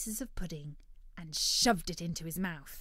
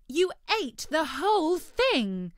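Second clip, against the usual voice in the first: disappointed Future Dog; 9 semitones higher, 9 dB louder than usual. Acted. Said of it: "very disappointed".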